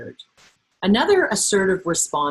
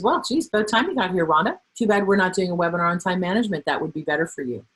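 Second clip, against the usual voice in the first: snide jab. Acted. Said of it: "use Sue as my bad guy".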